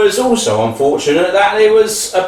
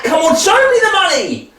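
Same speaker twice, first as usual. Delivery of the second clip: demanding; 6 semitones higher, faster than usual. Acted. Son demands money from father.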